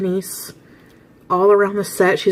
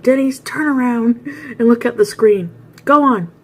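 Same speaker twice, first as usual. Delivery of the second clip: pushy host; 4 semitones higher than usual. Retold or imitated. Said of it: "he's like".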